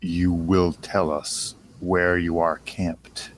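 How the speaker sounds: loom over him and command it slowly; menacing command. Acted. Intimidating captive with thaumaturgy.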